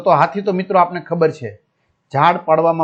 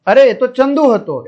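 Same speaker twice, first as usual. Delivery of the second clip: excited cry; 4 semitones higher than usual. Acted. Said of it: "તે જોર જોરથી બૂમો પાડવા માંડ્યો".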